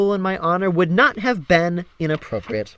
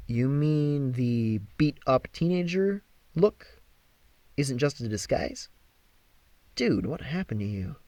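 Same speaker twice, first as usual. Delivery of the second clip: Percy's voice; 6 dB quieter than usual. Acted. Percy questioning Apollo.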